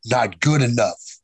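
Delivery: slow, flat, emotionless verdict; stern mentor passing a flat verdict; flat Chris verdict. Retold or imitated. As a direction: say it cold and deadpan, slowly, like a machine. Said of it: "that's the way he talked".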